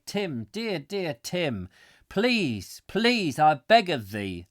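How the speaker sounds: hammed-up begging, each please drawn out; mock pleading. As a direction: plead cap in hand, imitating yourself. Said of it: "had to go cap in hand".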